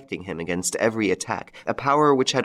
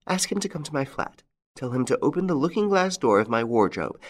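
higher, brisk widow giving orders down the line; a vindictive old widow turning in her captive; triumphant widow's telephone call; 8 semitones higher than usual. A narrator's reading. Widow's phone call to police.

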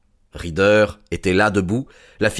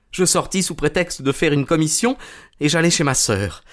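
lightly voiced, submissive thief; a hint of a nervous confessor; cowed culprit confessing; 5 semitones higher than usual. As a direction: own up meekly to the detective.

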